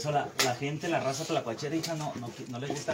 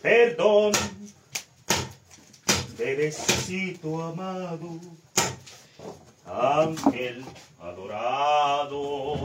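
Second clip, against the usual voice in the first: mock pleading; much slower than usual. Father begs baby's forgiveness dramatically.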